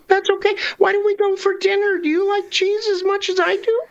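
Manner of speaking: lightly voiced cartoon mouse, slightly lifted pitch; earnest little mouse apology; Mickey Mouse. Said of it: "take a good stab at Mickey Mouse".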